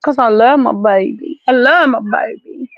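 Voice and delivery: fond, near-tearful declaration of love for the dog; teary doting. Real, not acted. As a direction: say it almost crying over the dog.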